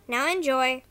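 ordinary talk

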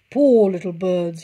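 smirking fox. A narrator's reading. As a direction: smirk through it. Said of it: "he smirked".

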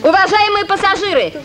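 formal public notice; airport announcement. Acted. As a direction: announce the delay officially. Announcing the trip is delayed.

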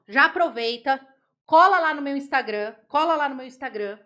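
ordinary delivery

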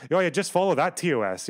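sarcastic mimicry. Mocking chat's advice.

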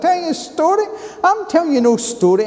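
high, loud Glaswegian outburst; furious Glaswegian patient demanding morphine; broad Glasgow accent. Retold or imitated. Retold pain outburst.

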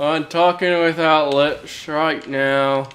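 slow demo of speech without lips, trying not to sound Irish; talking without lips. Shown as a demonstration. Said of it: "And then not sound Irish?".

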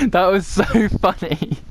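speaking through real laughter; laughing. Real, not acted. Gamer cracking up at a teammate's accent, laughing through the words. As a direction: crack up while talking.

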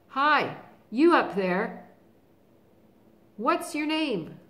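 loud high bawl up at the giant. Acted. Lion bawling up at the giant, loud. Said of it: "he bawled up at the giant".

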